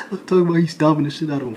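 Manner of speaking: can't hold back the laughter; laughing. Real, not acted. Telling viewers about the cellmate stomping, laughing hard. Laughing while retelling a beating.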